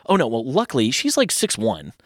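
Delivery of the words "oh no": high-pitched mock-panicked cry; retold dismay. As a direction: relive a sudden "lost her" alarm, pitched up. Retold panic at losing sight of her.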